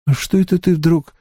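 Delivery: calm, relishing serial killer; lightly voiced killer Creed. A narrator's reading. (слегка озвученный маньяк Крид)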